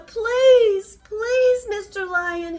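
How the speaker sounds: high, loud frightened begging; pleading mouse. Acted. Mouse begs the angry lion to let him go, frightened. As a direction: beg for your life, small and scared. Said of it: "he cried".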